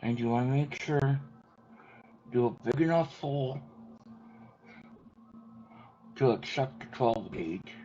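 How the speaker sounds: talking while chewing; words round a bite of food; mouth full. Real, not acted. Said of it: "Excuse me for talking with my mouth full".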